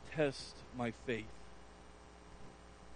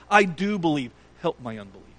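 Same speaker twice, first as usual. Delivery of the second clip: crying out; 2 semitones higher, 8 dB louder than usual. Retold or imitated. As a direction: cry out the plea in desperation. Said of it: "cried out and said".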